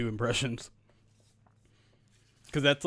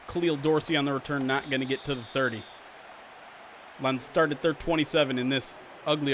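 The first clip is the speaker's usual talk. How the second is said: play-by-play commentary. Acted. Streamer calling the Madden sim to viewers, announcer style. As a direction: call it like a TV football announcer.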